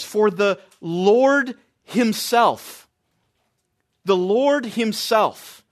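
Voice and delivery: "himself" drawn out slowly and weighted; slow emphasis on himself. Shown as a demonstration. Preacher stressing "himself" to his congregation, slow and weighted. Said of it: "that extra pronoun that's used there is intensifying".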